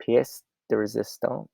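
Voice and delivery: "pièce de résistance" said carefully in French, pyess duh ray-zee-STAHNSS; unsure attempt at "pièce de résistance" in French, stress on the last syllable; French pronunciation. Shown as a demonstration. Presenter showing the billing sheet, tries the French phrase carefully. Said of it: "I don't know how to pronounce this".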